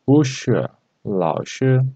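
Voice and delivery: 不 said rising, as bú, before 是; bu in second tone. Shown as a demonstration. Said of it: "we should read bu like second time".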